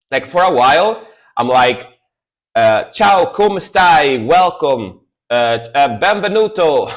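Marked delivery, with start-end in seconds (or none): 2.9-6.9 mock English-accented Italian, slow and a bit louder. Streamer imitating his own English-accented Italian greeting, playful. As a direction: greet the chat in Italian the way an English speaker would. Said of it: "I speak Italian but with an English accent".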